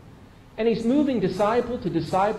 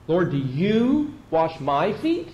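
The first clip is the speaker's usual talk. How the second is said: slow question stressing YOU and MY; drawn-out YOU, rising on FEET; emphatic pronoun; much slower than usual. Acted. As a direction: lean on YOU, lift the end as a question. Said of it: "puts the personal pronoun here as emphatic".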